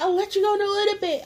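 high-pitched coaxing plea; pleading. Retold or imitated. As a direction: coax a tired friend, high. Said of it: "I'm like".

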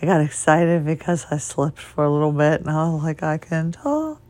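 weak, fading voice; losing voice. Real, not acted. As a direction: voice nearly gone. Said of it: "kinda like I'm doing now".

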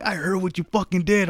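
mock accusing. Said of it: "He was like".

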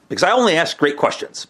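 mock-proud, tongue in cheek; sarcastic. Real, not acted. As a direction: brag with obvious sarcasm. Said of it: "Hashtag sarcasm".

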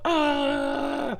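high, sudden hammed-up shriek; mock freak-out scream. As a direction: yelp like a near crash. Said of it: "freaking out".

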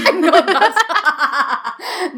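high, slow, laughing purr; a laughing, hammed-up seductive devil; Lucifer Morningstar voice. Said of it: "The Lucifer Morningstar voice".

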